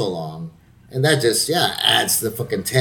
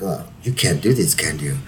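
mock taunting challenge; 7 semitones lower than usual. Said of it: "challenging me".

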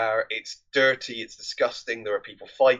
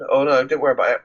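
mock disappointed mum; 5 dB louder, much faster than usual. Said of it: "sounds incredibly disappointed".

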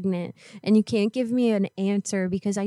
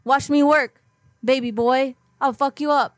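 put-on tough-girl threat; 5 semitones higher than usual. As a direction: talk trash like a street fighter. Prank caller threatens as tough friend.

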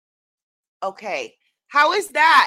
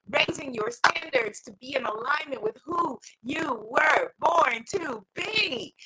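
rising declaration. Acted. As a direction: preach the last line out. Climax of repeated affirmation.

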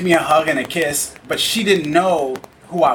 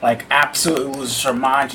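ordinary talk, nothing marked

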